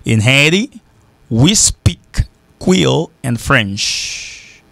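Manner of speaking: slow, word by word, pauses between phrases; measured English example, stretching "Creole and French"; slow model sentence. Shown as a demonstration. Teacher models an English translation for learners, slowly. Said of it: "on dit".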